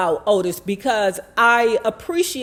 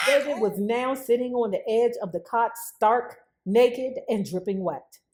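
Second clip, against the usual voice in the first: amused retelling, softer and laughing; laughing reread; 6 dB quieter than usual. Shown as a demonstration. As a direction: chuckle while repeating it. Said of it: "Ooh, I bet that was a sight".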